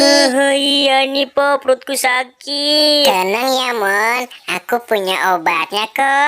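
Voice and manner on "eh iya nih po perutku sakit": hurting Emon moaning. Acted. Emon complains of stomach ache.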